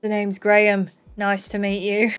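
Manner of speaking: lightly voiced boring accent; a hint of a dull character voice; Graham. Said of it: "Graham talks like this".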